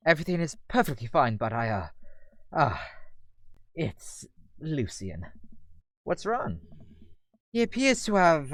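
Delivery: formal, hesitant British gentleman; British Damien. Acted. Damien reluctantly explaining trouble with Lucian, hesitant British voice. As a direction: break uneasy news haltingly in a British accent. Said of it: "British as Damien's".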